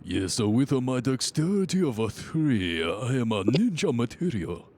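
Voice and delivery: put-on stereotyped Japanese accent; lightly put-on Japanese accent. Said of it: "stop with the accent".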